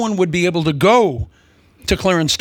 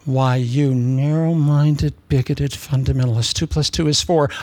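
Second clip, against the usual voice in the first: mock indignation. Acts out accusing someone of bigotry.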